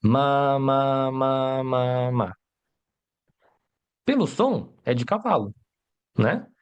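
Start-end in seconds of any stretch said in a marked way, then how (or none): 0.0-2.3 mock wail on one drawn-out note; a hint of a crying child, held monotone; imitated crying child. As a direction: lightly play a lost child calling, syllables run together. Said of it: "chorando e falando".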